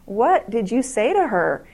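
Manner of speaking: slow, mildly baffled question; lightly acted bewilderment; confused. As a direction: draw it out, puzzled, as a retold quote. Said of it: "he was just confused".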